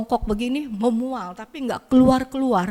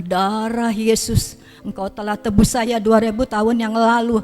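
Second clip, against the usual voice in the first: louder, intense prayer declaring scripture; fervent prayer; 4 dB louder than usual. Retold or imitated. Sick woman alone prays her healing aloud, fervent and loud. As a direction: proclaim the healing like a fervent believer. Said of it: "sampai saya sebutin semua firman".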